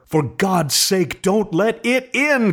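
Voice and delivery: slow, high terrified plea; trembling cry. A narrator's reading. Terrified husband begging his wife, slow and trembling. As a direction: beg her in dread not to open. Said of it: "cried the old man, trembling".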